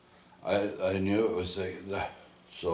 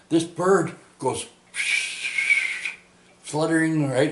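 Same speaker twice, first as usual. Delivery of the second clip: higher, louder excited telling; 8 semitones higher, 5 dB louder than usual. Real, not acted. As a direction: lift it up with excitement. Telling about bird hitting window.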